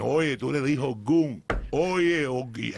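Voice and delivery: loud high Spanish hype call; hyping up. Retold or imitated. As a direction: fire him up in Spanish. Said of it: "So I would have started saying".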